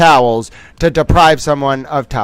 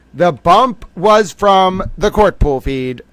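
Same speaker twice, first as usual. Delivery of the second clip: frustrated; 3 semitones higher, 4 dB louder, slower than usual. Real, not acted. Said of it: "I am a little frustrated".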